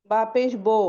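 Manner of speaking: بو with the Urdu o sound instead of a pure oo; majhool vowel. Shown as a demonstration. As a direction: demonstrate the wrong Urdu-style بو. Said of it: "اور مجہول کیسے پڑھیں گے". (بو کو اردو والی او کی آواز سے، مجہول)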